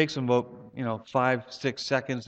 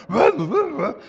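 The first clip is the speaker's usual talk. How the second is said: much higher, louder yapping barks; bark fest; 11 semitones higher, 6 dB louder than usual. Retold or imitated. Preacher mimicking the whole neighbourhood barking at night. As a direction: yap like a frenzied little dog. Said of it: "this bark fest going".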